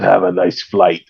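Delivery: low, slow corny action-hero one-liner; Arnold Schwarzenegger. Retold or imitated. Comic quoting a corny kill line, mock Austrian impression. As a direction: lightly imitate a slow Austrian action star. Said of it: "He says it with the corniest lines".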